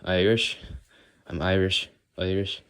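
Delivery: lightly imitated Irish accent. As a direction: savour "Irish" in a mock Irish accent. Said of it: "I love the way Irish people say the word Irish".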